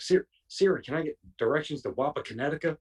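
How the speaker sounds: imitating a frustrated man begging his phone; mock pleading with Siri. Friend stuck at his phone, calling out to Siri in mock frustration.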